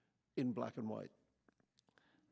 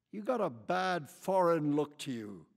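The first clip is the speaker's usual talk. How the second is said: loud voice of a bigoted camper; hostile lady; 3 semitones higher, 7 dB louder than usual. A narrator's reading. Camper insults Quichotte as foreign, hostile. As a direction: sneer the accusation.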